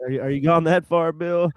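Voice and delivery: disappointed. Retold or imitated. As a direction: imitate a let-down friend. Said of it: "He kinda sounded disappointed".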